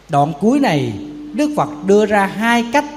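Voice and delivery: normal talking voice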